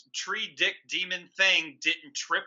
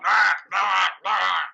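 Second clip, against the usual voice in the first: mock demon groans; 6 dB louder, slower than usual. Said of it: "You see its eyes going".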